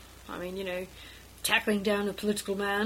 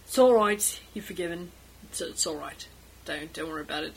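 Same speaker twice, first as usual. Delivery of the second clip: reassuring; 4 semitones lower than usual. Acted. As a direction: gently let them off the hook. Edmund forgives apologetic Francis.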